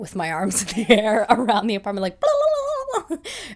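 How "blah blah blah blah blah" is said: wild, very high, loud puppet-like squeal. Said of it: "running like a Muppet".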